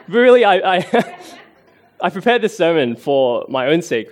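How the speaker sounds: "prepared" said through a real laugh. Real, not acted. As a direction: chuckle through "I prepared this sermon". Laughing at his own admission.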